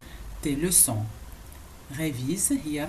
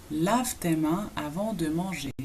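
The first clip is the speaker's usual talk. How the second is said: "Lave tes mains avant de manger" slowly, in separated chunks; slow model; 2 semitones lower, much slower than usual. Shown as a demonstration. Teacher models hand-washing command for learners, slowly. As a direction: draw out the phrase for learners.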